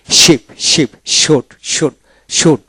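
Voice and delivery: শিপ begun with a full "sh"; palatal SH opening. Shown as a demonstration. Teacher showing students how to read SH, palatal SH demonstration. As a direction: open শুট on "sh", not "s". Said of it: "এইভাবে পড়বেন".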